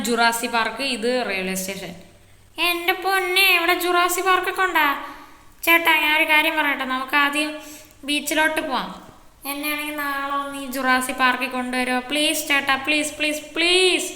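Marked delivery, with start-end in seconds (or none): 2.7-12.0 a hint of an eager little boy, higher; slightly raised child voice asking the big brother; lightly voiced kid. 12.1-14.1 pleading that builds higher and louder; whiny begging. Acted. Kid begging to go to park.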